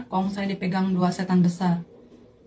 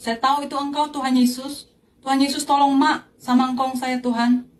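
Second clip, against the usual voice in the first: raised, higher-pitched appeal; retold cry; 4 semitones higher, 3 dB louder than usual. Granddaughter calling to the light for help, retold imploring shout. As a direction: reenact crying out to God, moderately forceful. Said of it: "Lalu saya teriak".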